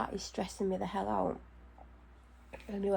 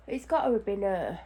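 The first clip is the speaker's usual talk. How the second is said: ordinary talk, nothing marked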